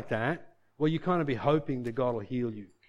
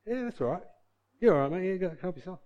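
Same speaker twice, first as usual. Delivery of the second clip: mock casual; 3 semitones higher, 3 dB quieter, faster than usual. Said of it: "You're not gonna go".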